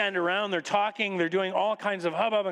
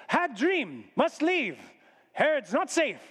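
higher-pitched, broken-English visitor; foreign magus; 7 semitones higher, slower than usual. Acted. Magus explains their sudden departure, urgent. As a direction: give terse news as the foreign magus.

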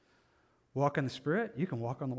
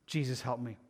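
weak, quiet mock plea for help; a drowning man's last whisper of a call; faint last-gasp plea; 4 semitones lower, 6 dB quieter than usual. The stubborn believer finally calling Jesus, weak and quiet. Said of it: "then I'm gonna say".

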